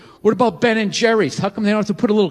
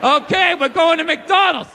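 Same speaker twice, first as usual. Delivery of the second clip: hypnotized obedience; 4 semitones higher than usual. Retold or imitated. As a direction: answer like a brainwashed sleeper agent. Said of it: "like the Manchurian Candidate".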